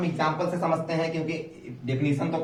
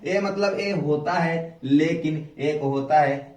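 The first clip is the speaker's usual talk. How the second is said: slowly spelled out for the class; teacher to pupils, slow and deliberate; slow explaining; slower than usual. Shown as a demonstration. Teacher explaining an exception to pupils, slowly. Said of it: "ये सब अपवाद हैं".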